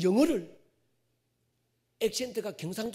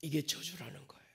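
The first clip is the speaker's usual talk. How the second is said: hushed, softer whisper; dramatic whisper; 7 semitones lower, 9 dB quieter than usual. Real, not acted. Preacher whispering to the congregation that this is the curse, hushed. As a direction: lean in and breathe the word 저주.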